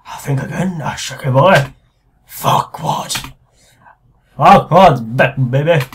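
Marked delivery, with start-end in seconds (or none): 2.3-3.1 whispered. Shown as a demonstration. Reading game dialogue twice. 4.4-5.8 loud. Shown as a demonstration. Reading game dialogue twice.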